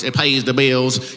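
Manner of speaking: slow, lighter Southern twang, said flatter; twangy drawl again. Retold or imitated. Comic repeating the twangy take for the crowd. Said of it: "I did more twang when I did your voice".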